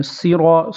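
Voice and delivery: صراط with a full, heavy ص; emphatic ص in صراط; heavy saad. Shown as a demonstration. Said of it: "صاد کو پر کریں گے،".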